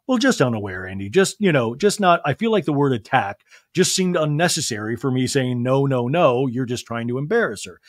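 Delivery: a slight drop in pitch to imitate someone; Garcelle. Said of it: "sorry, I did the Garcelle voice".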